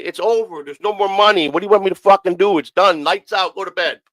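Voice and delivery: fed-up host calling it a night; retold exasperated dismissal. Retold sending house guests away.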